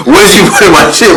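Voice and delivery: high-pitched mock outrage; heated accusing question, acted out; retold heated demand. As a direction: imitate him getting hot, pitch jumping up.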